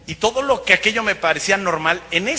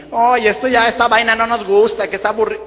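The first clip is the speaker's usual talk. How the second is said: imitated Colombian women, higher and louder; mock bored complaint, pitched up; colombianas quejándose; 4 semitones higher, 4 dB louder than usual. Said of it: "Había unas colombianas". (imitando a colombianas quejonas, agudo y fuerte)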